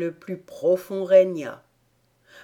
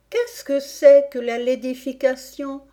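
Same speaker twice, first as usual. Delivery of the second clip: put-on higher-pitched questioning little girl; Alice curieuse; 6 semitones higher, 5 dB louder than usual. A narrator's reading. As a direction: ask it as curious Alice. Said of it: "questionna Alice". (petite fille curieuse, voix aiguë)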